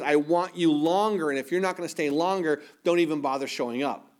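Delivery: a hint of sulky, needy insistence; mock the clingy crowd, lightly; petulant demand. Villagers sulking at Jesus for leaving, lightly voiced huff. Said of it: "that attitude".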